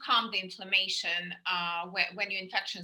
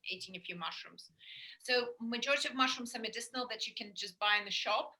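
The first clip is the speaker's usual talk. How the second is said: soft unvoiced whisper; 6 dB quieter than usual. Real, not acted. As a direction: drop to a whisper. Drops to a whisper mid-talk.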